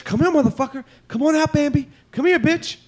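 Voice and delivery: high, taunting calling voice. Retold or imitated. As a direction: call the deer out mockingly, high. Taunting the deer, hatchet out.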